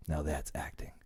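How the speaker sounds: low, hushed aside; imitated whisper. Uncle Phil to Will during the hug, hushed murmur. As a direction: drop right down, as if into his ear. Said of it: "Uncle Phil whispered into his ear".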